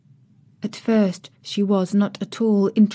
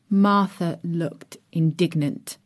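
ordinary delivery, nothing marked

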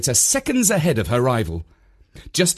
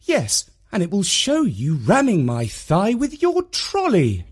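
mum's retort; 8 semitones higher than usual. A narrator's reading. Mum arguing back.

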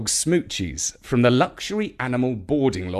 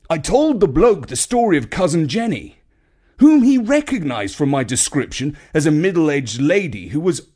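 a touch higher, chatty brother telling the tale; pleased with himself, a light character voice; lightly voiced Uncle Jeff; 4 semitones higher, 3 dB louder than usual. Jeff telling the family how he found the uniform, lightly voiced. Jeff retelling his find.

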